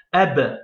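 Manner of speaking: ab ending on the bare b; blocked final letter. Shown as a demonstration. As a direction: stop ab on the b, no vowel after. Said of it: "ça veut dire en bloc". (ab avec le b bloqué)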